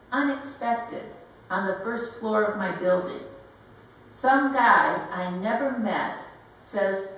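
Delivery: deadpan comic poem with pauses for laughs; wry, deliberate recital; poetry reading. Acted. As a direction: read the story poem in measured phrases, lightly voicing the dialogue. Reads comic narrative poem.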